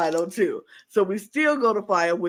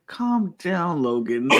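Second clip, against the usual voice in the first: mock calming; 4 semitones lower, slower than usual. Teammate telling a panicking Logan to calm down, mock-calming. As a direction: settle them down, voice dropping.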